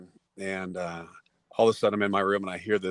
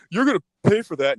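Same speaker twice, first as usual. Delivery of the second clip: laughing threat; 10 semitones higher, 11 dB louder than usual. Retold or imitated. Bully threatening after being punched.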